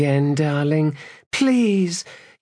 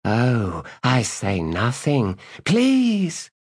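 mock frightened plea; 4 semitones higher, much slower than usual. Woman playing victim.

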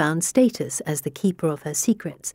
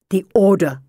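spat out; 4 dB louder than usual. Acted. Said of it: "He spits out the name".

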